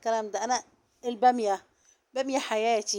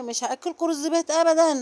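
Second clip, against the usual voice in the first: higher-pitched, emphatic retold refusal; insistent refusal; 5 semitones higher, 4 dB louder than usual. Stepmother refusing to serve leftovers, retold insistently. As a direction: mimic someone swearing she won't. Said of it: "وهي تحلف وانا احلف".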